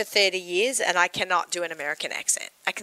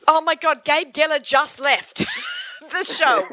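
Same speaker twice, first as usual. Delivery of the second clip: excited laugh; 6 semitones higher, 4 dB louder, slower than usual. Real, not acted. Host excited about guest.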